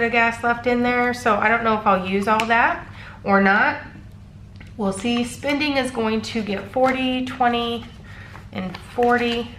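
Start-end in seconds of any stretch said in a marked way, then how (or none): 4.8-9.5 stuffy, blocked-nose voice; congested. Real, not acted. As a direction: talk through a congested nose. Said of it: "I apologize if I sound like I am congested".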